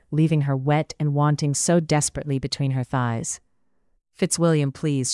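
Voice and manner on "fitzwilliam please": begging. Acted. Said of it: "she begged".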